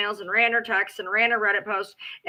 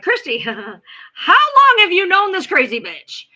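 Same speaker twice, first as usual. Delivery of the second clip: laughing disbelief; 8 semitones higher, 8 dB louder, slower than usual. Retold or imitated. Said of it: "I'm like".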